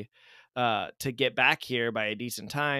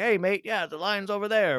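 higher-pitched, botched Aussie imitation; bad Australian accent; 8 semitones higher than usual. Podcaster quoting Hugh Jackman in the airport line, in a bad Australian accent. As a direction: put on a clumsy Australian accent. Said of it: "That's really bad Australian accent".

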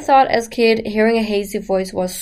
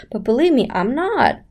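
mock-naive voice, pitch swooping up; dumb, innocent voice; 4 semitones higher than usual. Shown as a demonstration. Teacher denying she is dumb, mock-innocent. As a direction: protest innocently in a put-on naive voice. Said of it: "you think I'm dumb and innocent".

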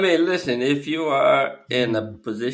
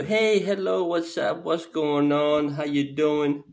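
jovial; 3 semitones higher, slower than usual. Retold or imitated. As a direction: imitate a hearty friendly caller. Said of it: "and it was very jovial".

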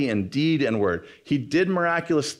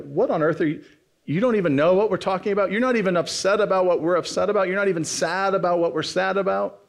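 mock disbelief, pitched up and hurried; incredulous; 6 semitones higher, faster than usual. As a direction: imitate someone baffled and put out. Acted disbelief of the disciples.

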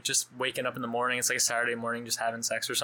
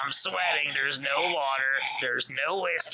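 dying of thirst; slower than usual. Retold or imitated. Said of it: "like, dying out there".

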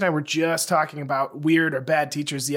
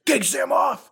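high-pitched mock German-accented demand; hammed-up German-accented order; 9 semitones higher than usual. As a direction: imitate a teacher insisting in a German accent. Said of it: "like, a German accent".

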